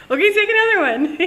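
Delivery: pushy host. Retold or imitated. Host pushing more sweets.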